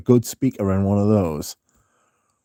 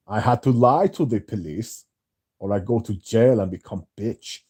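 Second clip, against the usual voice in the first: mock Prussian confession; caricatured Germanic speaker owning up; Jeremy Fragrance. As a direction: lightly put on a Germanic accent. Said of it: "flagrantly admitted to, like, lying to the police".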